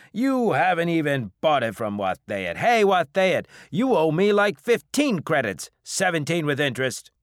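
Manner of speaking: high, loud protest; indignant drinker. Acted. Drinker claiming credit from the captain, loudly indignant. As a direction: argue loudly over who owes whom. Customer protests and duns debtor.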